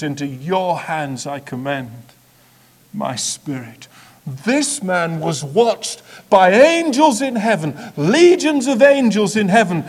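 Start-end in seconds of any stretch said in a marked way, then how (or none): 0.0-3.9 softer, peaceful surrender; contented. A narrator's reading. Jesus giving up his spirit, soft and content. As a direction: let go calmly and content. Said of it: "And in contentment".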